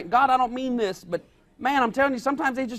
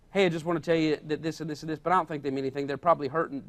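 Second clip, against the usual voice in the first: soft reassuring tone; 7 semitones lower, 4 dB quieter, faster than usual. Retold or imitated. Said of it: "put people in a good light".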